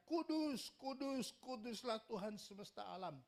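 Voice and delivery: high, loud seraphim cry, easing off; calling out. Acted. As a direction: cry it out like angels proclaiming to each other. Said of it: "mereka berseru seorang kepada seorang".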